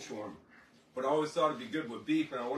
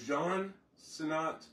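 slow careful reading; much slower than usual. Shown as a demonstration. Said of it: "I'm gonna try and murder it".

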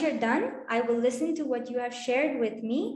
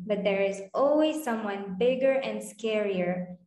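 demo read-aloud. Shown as a demonstration. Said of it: "So let me demonstrate".

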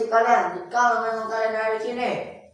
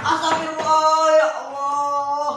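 startled exclamation; 6 semitones higher, 4 dB louder than usual. Real, not acted. Startled during the ghost hunt.

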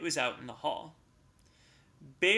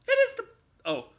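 proud announcement; 7 dB louder than usual. Acted. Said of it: "Bear announced proudly".

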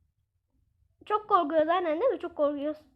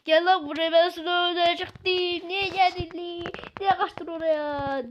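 retold angry shout; slower than usual. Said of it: "diye bağırıyor".

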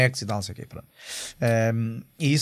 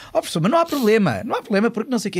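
mock insisting; 8 semitones higher, faster than usual. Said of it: "a Teresa a insistir".

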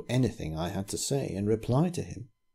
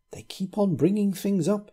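agitated; 11 semitones higher than usual. A narrator's reading. Vicar's agitated rant.

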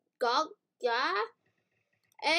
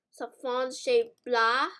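fake French; 4 dB louder, much slower than usual. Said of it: "I'm speaking fake French".

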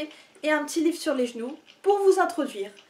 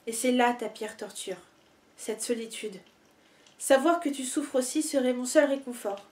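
measured, composed poem recitation with short pauses between lines; poetry reading; 2 semitones lower, 3 dB quieter than usual. Acted. Reader sharing favourite love poems with online followers, composed poetry reading. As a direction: read it as intimate verse, more subdued than chatting.

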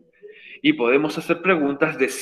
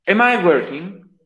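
slow question demo; much slower than usual. Shown as a demonstration. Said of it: "ahora es to be pronombre".

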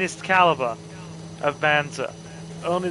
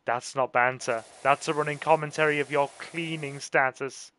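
quiet retort; 3 semitones lower, 6 dB quieter than usual. Retold or imitated. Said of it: "I'm just like".

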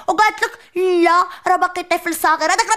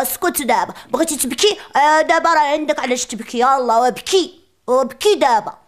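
mock stern scolding; 4 semitones lower than usual. Scolding crying baby brother.

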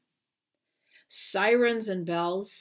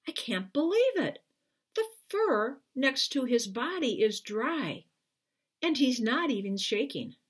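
amazed; 5 semitones higher than usual. Acted. Crewman amazed at dry puppy.

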